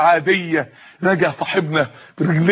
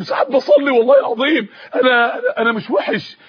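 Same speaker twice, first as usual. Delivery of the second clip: raised, halting, near-crying protest; tearful self-defence; 3 semitones higher than usual. Acted. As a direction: plead haltingly, on the verge of tears. Young man tearfully defends himself. (دفاع متلعثم بنبرة باكية)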